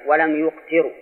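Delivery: يقتروا read yuqtirū; damma, then kasra. Shown as a demonstration. Teacher corrects the reading for students, يقتروا as yuqtirū. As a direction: say يقتروا with "yu" first and "ti" after. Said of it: "إذا قرئ بضم الياء كسرت التاء".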